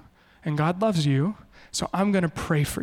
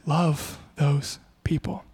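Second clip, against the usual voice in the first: whisper; 3 semitones lower, much slower than usual. Acted. Quoting Jesus softly.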